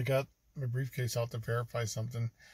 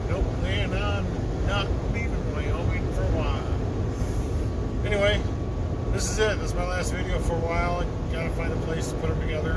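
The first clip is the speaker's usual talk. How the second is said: lightly held put-on voice; 3 semitones higher, 5 dB louder than usual. Vlogger signing off to viewers from Wyoming, lightly in a put-on voice. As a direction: keep the odd voice going, lightly. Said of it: "I don't know why I'm talking like this".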